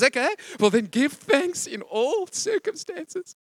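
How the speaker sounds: God answers the believer, slow and weighty; God answering. Retold or imitated. Lightly voiced God, slow. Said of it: "He says".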